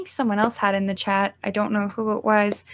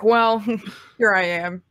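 mock modest reveal; slower than usual. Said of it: "it'd be like".

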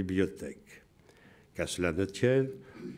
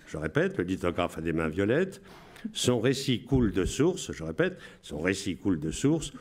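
radio announcer voice. Shown as a demonstration. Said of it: "Je vous lis avec la voix".

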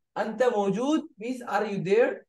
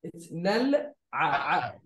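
slow correction; slower than usual. Shown as a demonstration. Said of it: "Can you pronounce it?".

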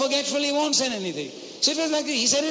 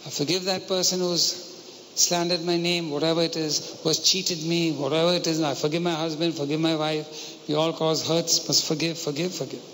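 prayer; 4 semitones lower than usual. Shown as a demonstration.

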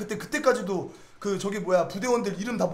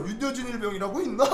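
laughing retelling; 3 dB quieter than usual. Retold or imitated. Same question retold laughing.

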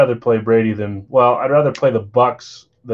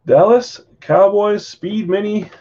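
hyped announcement; 8 semitones higher, 3 dB louder, slower than usual. Real, not acted. Announcing the pulled card.

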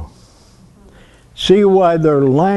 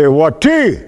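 middle inflection. Shown as a demonstration. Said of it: "the inflection of my voice will tell her".

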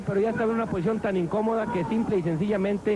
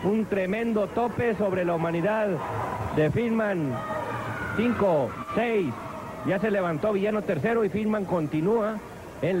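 live ringside play-by-play; wrestling commentator. Acted. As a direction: call the match as it happens.

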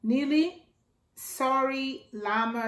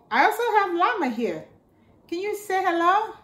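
excited puppet intro; 8 semitones higher, 4 dB louder, faster than usual. Acted. Host talks to llama puppet.

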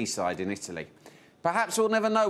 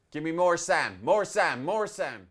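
director calling out; 4 semitones higher, slower than usual. Acted. Directing himself from gallery.

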